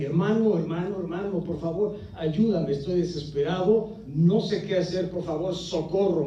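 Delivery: desperate cries. Retold or imitated. Brother calling at night begging for help, frantic high cries. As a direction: beg for help as if in a panic. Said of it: "a gritos desesperados".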